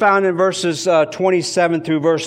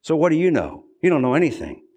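mocking dismissal; faster than usual. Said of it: "what he's saying".

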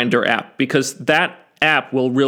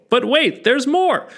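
high, bright pitchman "but wait"; infomercial; 11 semitones higher than usual. Pretend. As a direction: hype it like a TV pitchman. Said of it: "I sound like an infomercial".

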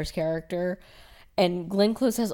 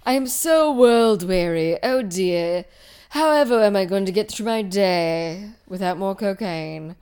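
John Malkovich; 4 dB louder than usual. Acted. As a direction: sigh through it as if life is exhausting. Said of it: "doing this world-weary thing".

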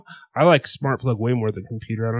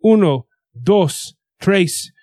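higher, louder, slow count-in; drawn-out rock count-off, pitched up; song count-in; 4 semitones higher, 4 dB louder, much slower than usual. Pretend. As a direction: count the band in with punch. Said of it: "why don't you count us up to fourteen".

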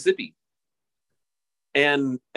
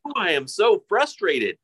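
slow, higher mock delivery with an ooh; hammed-up line reading; 7 semitones higher than usual. Mocking the play's repetitive dialogue, hammed up slow and high. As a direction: overplay the repeated line to mock it. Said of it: "every single line was like".

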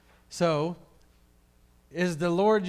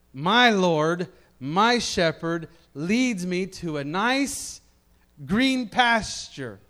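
content sheep; 3 semitones higher, 6 dB louder, slower than usual. Retold or imitated.

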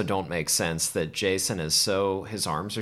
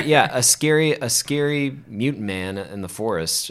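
repeated louder and closer, right into the microphone; louder into the mic; 4 semitones higher, 5 dB louder than usual. Real, not acted. Asked by the host to talk into the mic, she repeats it louder. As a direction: speak up so the mic catches it. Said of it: "talk right in that microphone there".

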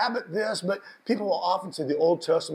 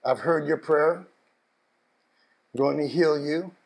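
tender divine promise; 4 semitones lower, much slower than usual. Acted. Repeating God's promise softly.

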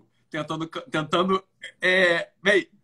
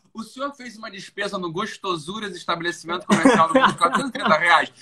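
laughing while imitating. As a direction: voice cracking with laughter as the attendant. Imitating the bank attendant while laughing.

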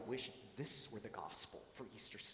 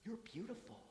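put-on soft, high, tender child's words; softly said; 7 semitones higher, 6 dB quieter than usual. Young girl telling blind priest what he looks like, softly. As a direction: lift the pitch but keep it soft. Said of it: "she softly said".

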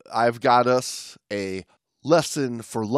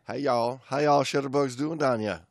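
put-on Southern accent; 5 dB quieter than usual. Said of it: "getting ready to go to Georgia".

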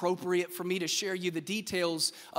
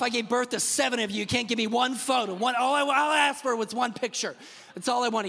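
exasperated parent; 3 semitones higher than usual. Retold or imitated. Frustrated parent at photo shoot.

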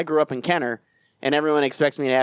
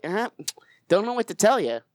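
indifferent doctor. Acted. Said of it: "that's how doctors are".

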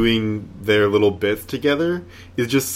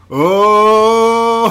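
sudden surprise; 11 semitones higher, 8 dB louder than usual. Real, not acted. Sudden realization mid-discussion.

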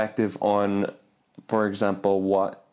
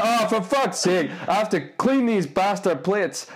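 mock grumbling; 9 semitones higher than usual. Mocking friend's lazy complaint.

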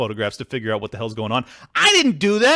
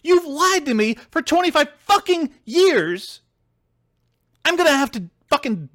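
angry callout; 13 semitones higher than usual. Retold or imitated. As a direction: drag it out like you're fed up. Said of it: "keep track of this shit and go".

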